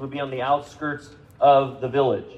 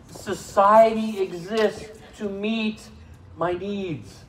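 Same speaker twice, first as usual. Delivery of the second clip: entitled attitude; 6 semitones higher, much slower than usual. Acted. Preacher voicing entitled self.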